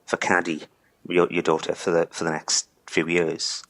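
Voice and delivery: fighting back tears; choking up. Real, not acted. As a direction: voice thick with tears. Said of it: "Sorry, I'm choking up".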